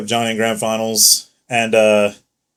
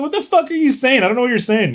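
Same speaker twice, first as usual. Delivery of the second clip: high-pitched, incredulous retold protest; mock bafflement; 12 semitones higher than usual. Player retelling his confused reply to a friend, mock bafflement. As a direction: act out being totally lost, pitched way up.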